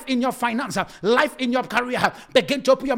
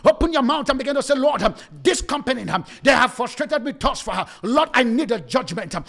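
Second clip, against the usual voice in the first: preaching prayer. Acted. Leads the congregation in prayer.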